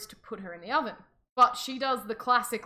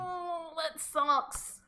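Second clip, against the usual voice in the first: mock sympathy; 6 semitones higher, much slower than usual. Voicing heroine hearing bad news.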